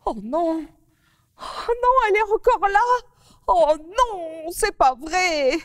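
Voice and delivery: put-on a little girl's shocked dismay; dismayed cry. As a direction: wail at the flower still on your nose. Mimi discovers flower still there.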